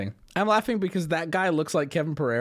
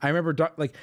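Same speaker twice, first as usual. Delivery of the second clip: ordinary talk, nothing marked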